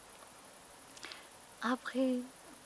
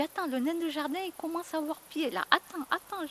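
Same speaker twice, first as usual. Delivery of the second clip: playful excitement; 6 semitones higher than usual. Retold or imitated. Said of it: "Je dis".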